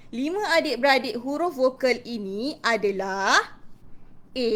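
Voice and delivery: stretched words building to a lifted ending; clear expressive storytelling. Shown as a demonstration. Teacher introducing the five vowel siblings, expressive storytelling. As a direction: lead children up to the reveal. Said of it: "kuat, jelas dan penuh intonasi".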